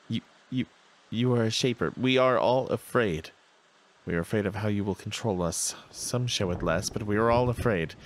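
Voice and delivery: nervous servant voice. Acted. Nervous servile answers the shaper.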